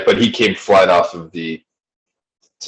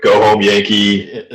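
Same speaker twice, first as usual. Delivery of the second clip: put-on Southern accent; slower than usual. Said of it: "And I say it so Southern".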